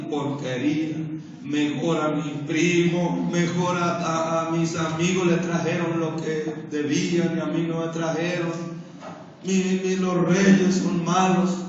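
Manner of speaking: imitating a sulky kid, voice changed, sing-song; whining child. Kids complaining about their gifts.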